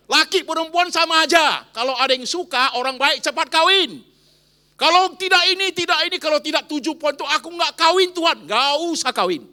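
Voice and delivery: loud, high fiery sermon; preacher shouting to the crowd; preaching at full force. Acted. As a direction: hammer each phrase home. Preacher drives point home loudly.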